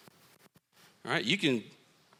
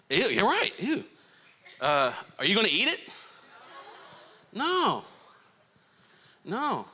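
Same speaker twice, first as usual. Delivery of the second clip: grossed out; 7 semitones higher than usual. Acted. Playing disgust at rotten apple.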